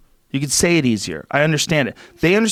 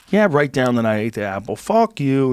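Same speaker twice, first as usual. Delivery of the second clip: put-on New York accent. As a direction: answer back as a New York Eve. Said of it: "having that New York accent".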